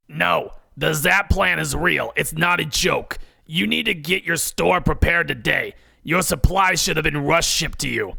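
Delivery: gruff, rough, smoky voice like a longtime smoker. Narrator reading the boss's reply over the phone, Debbie's gruff smoker's voice. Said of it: "She asks with her gruff smoker's voice. / What do you want? She asks with her gruff smoker's voice. / She asks with her gruff smoker's voice. / She asks with her gruff smoker's voice. / The ph".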